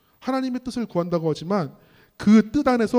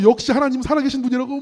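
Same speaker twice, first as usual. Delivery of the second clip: mild retold cry of joy, higher and louder; elated shouting; 6 semitones higher, 5 dB louder than usual. Young believer celebrating that he survived, elated shouting. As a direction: lift it high, imitating an overjoyed shout. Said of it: "막 소리를 지르고".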